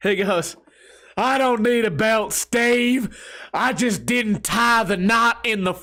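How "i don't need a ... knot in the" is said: put-on country accent, pitched higher. Retelling a rival's reply to you: country accent. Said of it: "he has a country accent".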